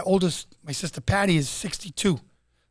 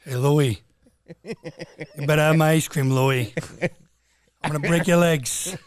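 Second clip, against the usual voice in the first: De Niro threatening Louis the Ice Cream Man; De Niro impression. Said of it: "Here's Robert De Niro buying ice cream".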